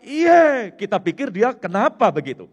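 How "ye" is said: retold shout. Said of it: "dia teriak".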